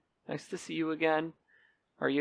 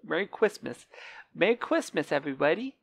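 lightly voiced little kid lisping Quistmas; a hint of a small boy squeaking out Merry Quistmas. Wishing viewers Merry Christmas, in a mild little boy voice. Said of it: "that's my little boy voice, apparently".

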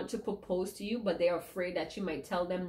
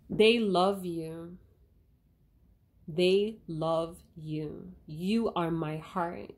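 tears of joy; 3 dB louder, slower than usual. Real, not acted. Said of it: "That was tears of joy".

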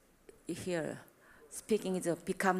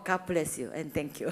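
laughing blessing; 4 semitones lower than usual. Real, not acted.

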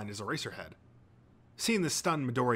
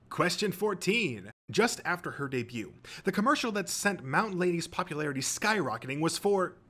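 higher, showy quiz host; quizmaster; 6 semitones higher than usual. A narrator's reading. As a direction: read the question with game-show flourish.

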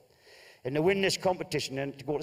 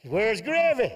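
indignant demand; 7 semitones higher, 5 dB louder, slower than usual. Acted. Husband demands gravy again.

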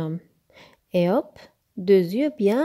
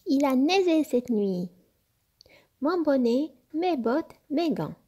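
excited; 6 semitones higher than usual. Acted. Little fox discovers fresh snow.

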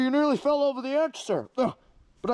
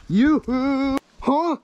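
shocked outburst; 4 semitones higher, 5 dB louder than usual. Acted. Villain sees foe alive.

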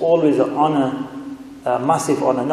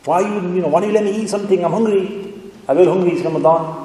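lightly acted, higher-pitched complaint; mock plaintive appeal; pleading wolf; 4 semitones higher, faster than usual. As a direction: plead like a hungry wolf, playfully. Voices hungry wolf pleading with shepherd.

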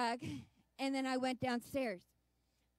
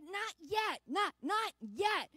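put-on a child's drawn-out not yet, raised; pleading child; 4 semitones higher, slower than usual. Little girl begging to stay, drawn-out pleading. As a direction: beg like a little girl not ready to leave.

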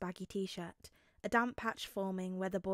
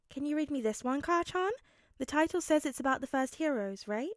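put-on higher-pitched, hopeful child's question; eager little Midoriya; 5 semitones higher, 3 dB louder than usual. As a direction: ask sweetly, pitched up. Midoriya asks to be read to.

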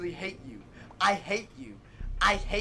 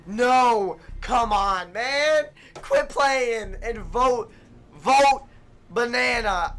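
loud, higher urging shouts; frustrated yelling; 3 semitones higher, 5 dB louder, slower than usual. Real, not acted. Gamer yelling at slow teammates to vote banana, frustrated. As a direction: yell at them to vote.

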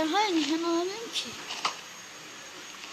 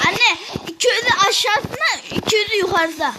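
protesting; 3 semitones higher, 4 dB louder than usual. Real, not acted. Child protests to parent about money.

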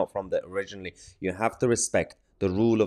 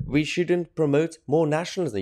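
higher-pitched quote of an opponent; mildly mocking higher-pitched quote; quoted objection; 5 semitones higher than usual. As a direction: repeat her claim in a raised voice. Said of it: "is that she says".

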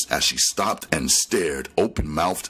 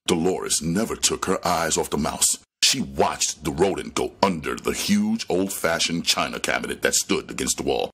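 ordinary delivery

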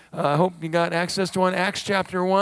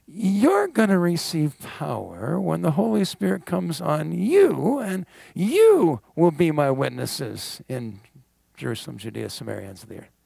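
gentle answer. Retold or imitated. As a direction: reassure them gently. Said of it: "And his gentle answer is".

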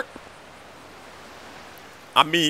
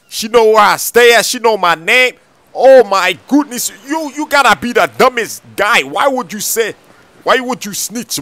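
exasperated; 5 semitones higher, 5 dB louder than usual. Acted. Friend exasperated at snitching.

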